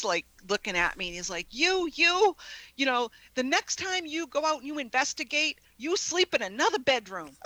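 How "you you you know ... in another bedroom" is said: retold angry husband. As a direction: play the cross husband laying down a rule. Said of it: "my husband was so angry with me".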